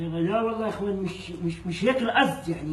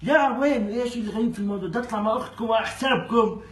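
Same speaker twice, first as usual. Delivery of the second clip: incredulous protest; 2 semitones higher than usual. Real, not acted. Guest incredulous at strange offer.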